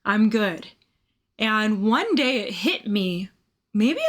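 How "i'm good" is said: mild frustration. Retold or imitated. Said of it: "a little frustrating".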